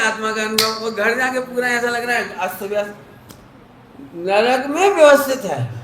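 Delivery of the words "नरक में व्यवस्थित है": laughing punchline. Real, not acted.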